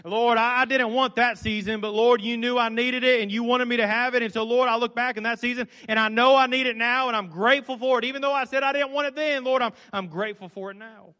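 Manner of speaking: heartfelt spoken prayer. Acted. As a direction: pray it aloud to the Lord. Preacher breaks into spoken prayer.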